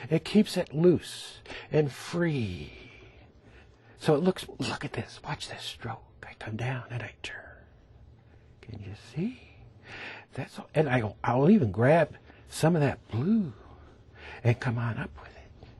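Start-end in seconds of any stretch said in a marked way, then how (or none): 4.6-10.7 soft whisper demonstrating a stroke. Real, not acted. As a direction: breathe it, as if not to disturb the brush. Teacher hushes to show stroke.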